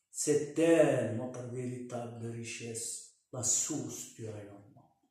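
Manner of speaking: formal poem reading with pauses between lines; poem recitation. Real, not acted. Author presents his commentary on the youth in verse, poem recitation. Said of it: "l'exposer en vers".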